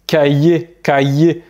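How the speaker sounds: cahier said ka-yé, with a clear y glide; double L as Y. Shown as a demonstration. Teacher showing Spanish double L, cahier said ka-yé. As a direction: say cahier in two syllables, ka-yé. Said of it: "un peu comme un Y".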